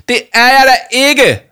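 high, loud, drawn-out denial; indignant shout. A narrator's reading. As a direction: shout back in outraged protest. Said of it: "råbte Jama". (højt, forarget råb)

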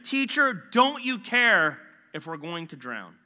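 loud, high, slow desperate cry; panicked shout. Acted. Disciples shouting at sleeping Jesus, loud and desperate. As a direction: yell it like the boat is sinking. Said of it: "shouting at him".

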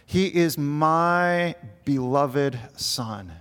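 slow, deliberate introduction of a son; God's voice. Retold or imitated. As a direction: lightly voice God presenting his Son, each word drawn out. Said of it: "here is God introducing Jesus".

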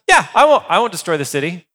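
casual, high-pitched breezy yes; easy agreement. Pretend. God breezily agrees to Abraham, casual. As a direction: toss off the yes without haggling. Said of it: "but God goes".

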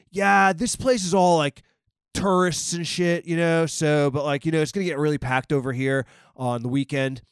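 put-on easygoing LA driver accent, lightly done. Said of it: "by his stereotypical accent".

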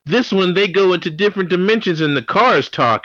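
put-on high excited kid voice; little cousin voice. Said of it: "my little cousin was like".

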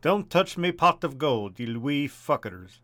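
slow Irish leprechaun growl; Irish leprechaun guarding gold, slowly; leprechaun accent. Acted. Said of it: "Mario pretending to be a leprechaun".

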